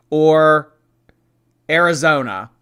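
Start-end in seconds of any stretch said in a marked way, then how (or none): 0.1-0.7 whispering. Pretend. Suspense whisper between choices.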